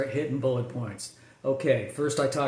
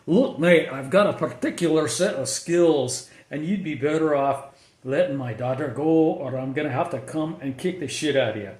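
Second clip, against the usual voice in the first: put-on British accent. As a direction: growl the threat in a British accent like a tough dad. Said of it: "He's got his British accent".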